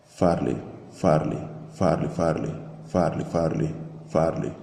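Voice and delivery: mechanical repeated chant, like a sample on loop; looping loudspeaker voice. Retold or imitated. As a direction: echo the name like a distant megaphone loop. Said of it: "turned into a voice which was saying the same sentences as a looping sequence".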